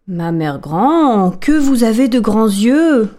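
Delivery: put-on slow child's voice, drawn out; the girl staring at grandmother's eyes, slow; wondering little girl. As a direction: ask slowly and wide-eyed. Girl questions the wolf.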